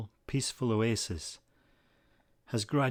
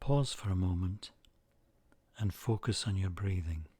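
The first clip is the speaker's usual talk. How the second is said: calm, measured meditation voice with long pauses; unhurried phrases, each left to settle; guided meditation. Acted. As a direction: guide listeners gently into the image, leaving space between phrases.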